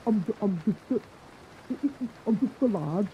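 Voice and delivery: halting attempt at a Northern English accent; bad northern accent. Podcaster mimicking the singer's modest mask, bad northern accent. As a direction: have a clumsy go at a northern English lad. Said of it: "That was a bad northern accent".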